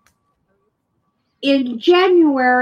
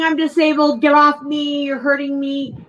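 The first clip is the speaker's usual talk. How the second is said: mild mock yell, a bit higher; half-hearted retold scream for help; 4 semitones higher than usual. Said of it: "I'm still screaming".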